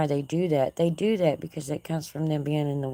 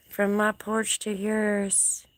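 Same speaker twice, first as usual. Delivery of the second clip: slow fond sign-off; 4 semitones higher, much slower than usual. Real, not acted.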